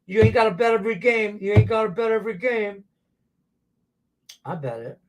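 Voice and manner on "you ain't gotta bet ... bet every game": preaching. Retold or imitated. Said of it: "I preach this Monday through Friday".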